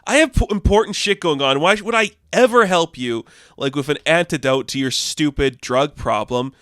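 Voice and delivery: mocking angry rant. 8 Ball snapping at Hank.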